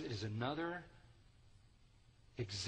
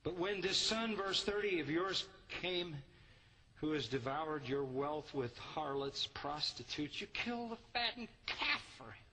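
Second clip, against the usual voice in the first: accusing son; 3 semitones higher than usual. Acted. Older son accusing his father over the brother, bitter. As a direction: spit out the charge against the brother.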